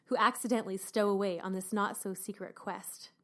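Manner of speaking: smooth, sultry book-blurb reading; sexy reader voice. Pretend. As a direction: read it like a seductive audiobook narrator. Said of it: "put my sexy writer, reader voice on".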